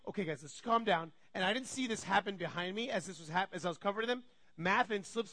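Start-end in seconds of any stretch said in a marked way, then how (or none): 0.1-1.1 lower, settled voice; calm the room after the yelling; calming parent. Retold or imitated. Parent to fighting kids, lower calming voice. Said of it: "so I'm like".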